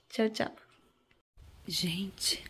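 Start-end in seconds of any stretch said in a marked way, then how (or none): 1.6-2.4 whispering. Real, not acted. Whispered wake-up aside.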